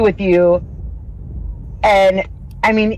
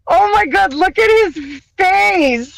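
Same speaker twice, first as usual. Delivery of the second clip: slow, squeaky, much higher gush; high squeal; 10 semitones higher than usual. Retold or imitated. Laughing at Ethan's face on the podcast, a high slow squeal. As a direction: coo it slowly, amused and pitying. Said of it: "I was just like".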